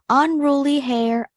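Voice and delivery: put-on gentle read-aloud for children, measured pace; storybook narration. A narrator's reading. Teacher reading a picture book to kids, expressive narration. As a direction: tell the tale to a class of young listeners.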